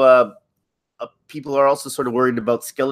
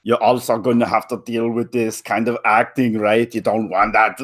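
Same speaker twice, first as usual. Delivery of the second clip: Schwarzenegger impression. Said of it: "like, a Schwarzenegger-sized dude".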